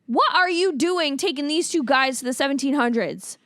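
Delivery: disbelief rising to an exasperated yell; baffled outburst. Retold or imitated. Viewer reacting to the time jump, baffled then exasperated. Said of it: "my first thought was".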